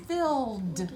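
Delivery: "Filled" with the final D drawn out; exaggerated word endings. Shown as a demonstration. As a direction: stretch the D sound at the end of "Filled". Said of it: "Let's just say it again".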